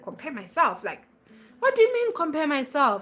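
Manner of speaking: puzzled protest at being corrected; baffled retort. Retold or imitated. Speaker replaying her reaction to a trusted sister's advice, baffled.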